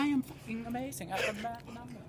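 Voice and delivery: high put-on Asian accent. Bragging to friend about math, in a put-on Asian accent. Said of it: "now he's on his Asian accent".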